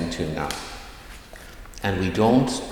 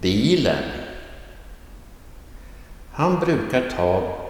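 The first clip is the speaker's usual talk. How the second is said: each word, as "Bilen", read alone with accent-one pitch movement, then in its sentence. Shown as a demonstration. Teacher reads exercise words then sentences for learners, careful accent-one demo from "Bilen" to "stor stad". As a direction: model "Bilen", then "Han brukar ta bilen", carefully, with long pauses and a marked pitch swing on the key word. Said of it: "small little sentences with accent one".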